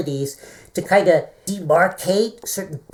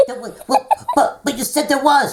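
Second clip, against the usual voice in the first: high, loud laughing back and forth; laughing protest; 10 semitones higher, 4 dB louder than usual. Real, not acted. Both laughing while arguing over the fake scorpion. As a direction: argue through laughter.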